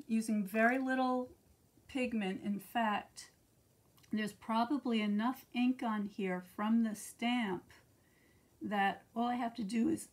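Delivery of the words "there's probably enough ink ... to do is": hoarse, fading voice; losing my voice. Real, not acted. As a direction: voice giving out, rough. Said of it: "I'm losing my voice".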